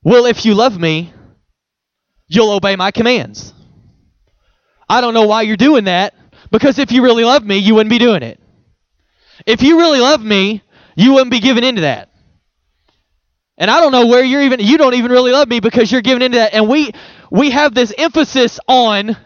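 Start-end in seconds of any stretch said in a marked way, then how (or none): 0.0-3.5 a stiff, demanding reading of the verse; preacherly stern version of the verse; religious stern reading. Shown as a demonstration. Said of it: "here's the religious way that most of us have heard this verse". 4.9-16.5 scolding religious voice. Retold or imitated. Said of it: "here's the religious way".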